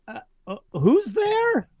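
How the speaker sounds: put-on high, far-off old Italian mama asking who's there; Mama Tacconi voice. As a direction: call through the door as the old restaurant mama. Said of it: "I almost jumped in as the N P C".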